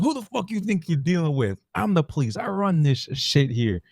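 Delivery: a lightly voiced corrupt cop boasting; movie villain's swagger, lightly played; quoting Alonzo. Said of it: "It's like".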